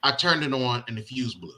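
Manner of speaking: husband quoting his wife's report; mimicking wife. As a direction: relay the wife's words quietly and slowly. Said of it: "she's like".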